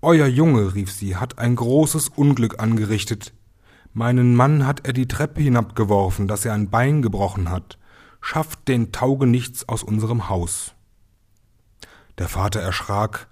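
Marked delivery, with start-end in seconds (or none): 0.0-10.7 wailing complaint. Acted. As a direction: burst in crying out to the father. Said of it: "mit lautem Geschrei".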